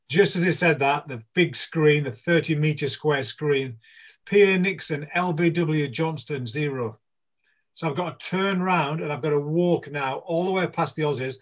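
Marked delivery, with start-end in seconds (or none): 4.3-7.0 1 stadium announcer. Retold or imitated. Big screen announces his dismissal.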